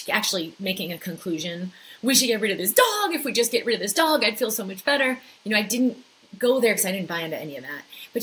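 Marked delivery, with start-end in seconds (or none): 2.0-5.2 raised, higher urging; mildly whiny pleading, pitched up; acted pleading. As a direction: play the insistent inner complaint. Voicing her mind's urging conclusion.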